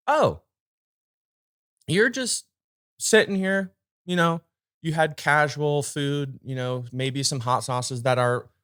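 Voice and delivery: high singsong self-mockery; high mocking voice. Mocking his own careless thinking.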